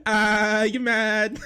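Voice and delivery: slow, laughing, drawn-out jeer; mock him between laughs; giggling you mad taunt. Real, not acted.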